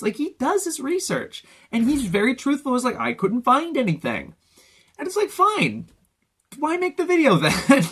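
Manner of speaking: mock him in a high sing-song voice. Mocking the YouTuber's video.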